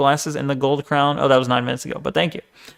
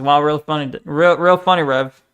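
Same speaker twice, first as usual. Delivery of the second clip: sarcastic deadpan. Real, not acted. Sarcastic at Rev's joke.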